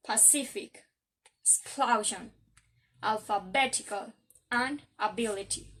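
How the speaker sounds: pacific, explosion, alphabetical, ability, each stressed before its ending; careful example list of pacific, explosion, alphabetical, ability; stress before suffix. Shown as a demonstration. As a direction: lean on "CIF", "PLO", "BET", "BIL" in pacific, explosion, alphabetical, ability. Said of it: "has the stress before the last syllable".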